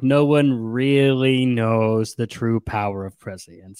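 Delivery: mock muttering. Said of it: "But she mutters".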